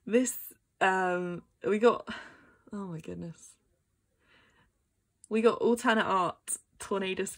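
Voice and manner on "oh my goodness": hushed, lower amazement; stunned murmur. Real, not acted. Vlogger lost for words at the card, stunned. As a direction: say it very softly, overwhelmed.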